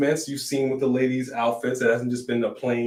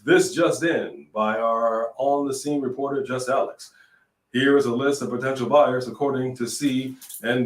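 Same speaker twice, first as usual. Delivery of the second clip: newscaster voice. Pretend. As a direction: read it like the evening news. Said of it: "let me read this like a newscaster".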